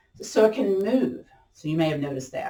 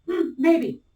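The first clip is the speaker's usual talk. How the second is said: high, wavering hmm as the stretch bites; squeaky high hmm of effort; voice goes up; 9 semitones higher than usual. Real, not acted. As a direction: pitch jumps up in mock strain. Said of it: "When my voice goes up".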